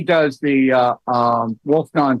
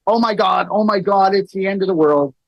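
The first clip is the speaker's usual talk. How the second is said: mock panic; 3 semitones higher than usual. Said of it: "I'm exaggerating".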